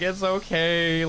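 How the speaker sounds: slow, drawn-out reassurance; soothing. Retold or imitated. Graduates comfort their crying friend, soothingly.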